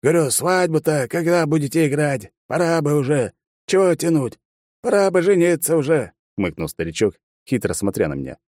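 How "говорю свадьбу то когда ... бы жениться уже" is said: put-on cheeky old grandfather, raised voice; crafty old man pressing about the wedding; sly old man. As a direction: tease like a mischievous granddad. Old man Amadei's teasing lines.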